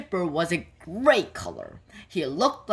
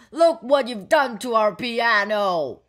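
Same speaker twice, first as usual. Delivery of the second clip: raised, higher storybook shout; 5 semitones higher, 5 dB louder than usual. A narrator's reading. Big man scolds over the wrecked piano, shouting. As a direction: read it as a loud, indignant complaint. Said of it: "shouted the big man".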